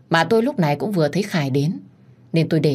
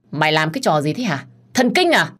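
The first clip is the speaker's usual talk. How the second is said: angry scolding. Acted. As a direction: bark at her furiously. Husband scolds mistress. (quát giận dữ)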